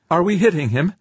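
high, loud anxious question; pitched high. A narrator's reading. Crewman asking if laser hits, high-pitched. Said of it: "his voice pitched high".

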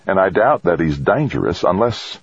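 "unless" left hanging unfinished; trailing off. A narrator's reading. Woman doubting he's dangerous, "unless" trailing off. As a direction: let the line drift away on "unless". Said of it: "her voice trailed off".

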